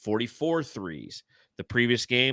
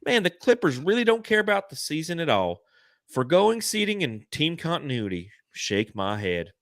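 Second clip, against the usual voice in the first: mock Reddit poster; 6 semitones higher than usual. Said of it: "They go".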